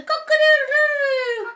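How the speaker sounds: a bright rooster call over the trees; rooster crow. Acted. Rooster crowing in story.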